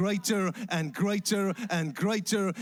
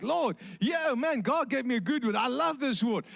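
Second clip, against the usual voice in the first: delighted king; 4 semitones higher than usual. Retold or imitated. Self-satisfied king.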